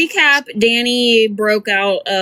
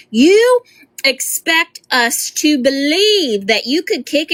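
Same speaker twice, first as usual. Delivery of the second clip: incredulous shout; 5 semitones higher, slower than usual. Real, not acted. Mocking rant at Danny.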